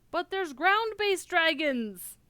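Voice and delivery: high, loud and slow exclamation; stretched, amused protest; excited outburst. Real, not acted. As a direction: blurt it out, delighted. Streamer's outburst at dialogue.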